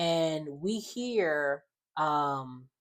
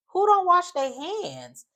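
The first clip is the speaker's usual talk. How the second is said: slow, high and louder disbelief; 13 semitones higher, 4 dB louder, slower than usual. Real, not acted. Host asks viewers in real outrage, slow high disbelief. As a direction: drag it out, scandalized. Host's own outrage at the story.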